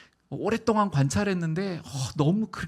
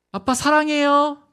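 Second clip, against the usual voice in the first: sweet-talking son; 10 semitones higher, 8 dB louder, slower than usual. Retold or imitated. Son dodging with sweet words.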